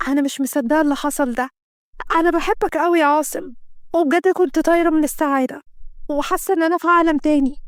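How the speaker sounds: lightly voiced woman in love; happy young woman. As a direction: float on happiness. Kenda overjoyed after night.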